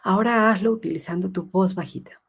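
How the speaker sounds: plain, firm, matter-of-fact request; just tell him straight, no sugar; direct instruction. Shown as a demonstration. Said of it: "o lo puedes hacer directo".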